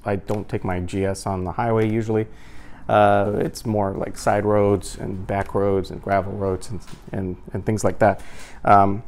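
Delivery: muffled through chin bar; talking inside helmet. Real, not acted. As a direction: voice behind helmet shell. Seen 1: Full-face adventure helmet worn throughout; removed about 22 seconds in.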